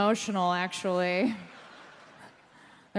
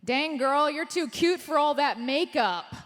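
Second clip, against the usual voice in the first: mock catcaller shout; 5 semitones higher, 4 dB louder than usual. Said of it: "this guy just shouted at me".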